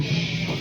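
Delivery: long soft shushing noise; drawn-out quiet shh; hushing "shh". Retold or imitated. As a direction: hush it like nothing may move. Miming keeping very still.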